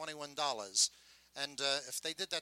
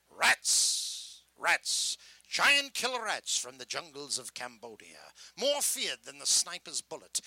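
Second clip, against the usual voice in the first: sideshow tape barker. Shown as a demonstration. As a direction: build dread to sell the rat show. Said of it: "this is how a three-minute endless tape would sound".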